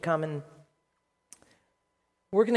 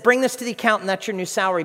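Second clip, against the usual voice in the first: loud, raised mock command; gruff boss; 4 semitones higher, 7 dB louder, faster than usual. Boss sends employee to the accountant, gruff. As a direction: imitate a boss issuing brisk orders. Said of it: "he's just gruff".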